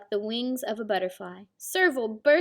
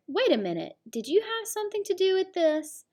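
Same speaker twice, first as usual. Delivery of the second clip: suspicious question; 9 semitones higher than usual. Acted. Suspicious mother questions daughter.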